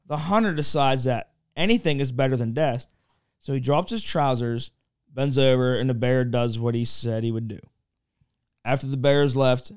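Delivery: normal talking voice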